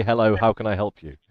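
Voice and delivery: lightly voiced, brisk German speaker, barely accented; plain German voice. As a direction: say it quickly as an unaccented German would. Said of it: "in a typical non-accented German voice".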